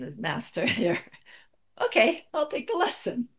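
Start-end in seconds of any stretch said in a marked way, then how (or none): 1.8-3.3 high, small voice of a meek student; meek giving in. Retold or imitated. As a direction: squeak out a timid yes. Giving in to the master.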